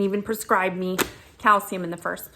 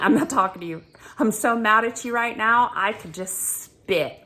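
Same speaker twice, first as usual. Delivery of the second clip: mad retort; 3 semitones higher, 4 dB louder than usual. Retold or imitated. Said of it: "I was mad".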